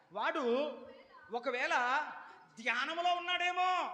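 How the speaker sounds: high mock suggestion; sarcastic jab. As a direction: tease that their god is meditating. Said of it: "ఎటకారంగా మాట్లాడతా". (వెటకారంగా)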